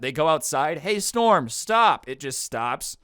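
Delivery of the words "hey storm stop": loud, higher mock order to the storm; hammed-up shout at the storm; mock command. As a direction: bark it at the sky like a joke.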